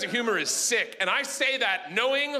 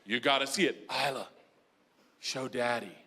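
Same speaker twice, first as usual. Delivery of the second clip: put-on deadpan kid; 9 semitones lower than usual. Child quietly presents sister's trick.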